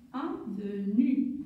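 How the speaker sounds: slow repeat. Shown as a demonstration. Teacher repeats "Avenue" slowly for pupils. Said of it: "Je vais écrire".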